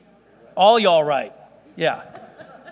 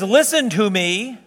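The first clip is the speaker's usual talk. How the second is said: slow solemn command; 2 semitones higher, slower than usual. Acted. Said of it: "the Lord of Glory says".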